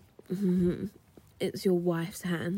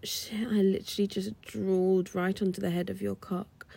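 whispering. Acted.

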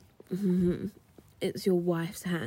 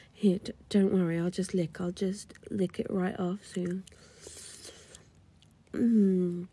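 normal talking voice

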